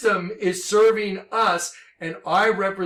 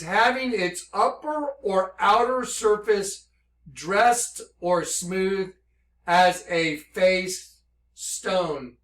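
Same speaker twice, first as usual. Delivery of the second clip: slow reading; slower than usual. Shown as a demonstration. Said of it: "another definition right under it".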